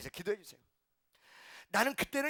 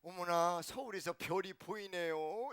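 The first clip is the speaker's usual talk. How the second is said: amazed country woman; 3 semitones lower, 5 dB quieter, slower than usual. Retold or imitated. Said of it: "목포 사람도 웃기더라고".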